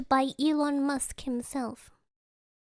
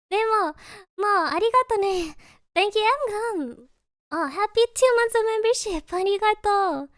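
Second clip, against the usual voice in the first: high, bright thank-you to chat; cute anime streamer; 6 semitones higher than usual. Real, not acted. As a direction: squeal thanks to a member. Thanking members, higher voice.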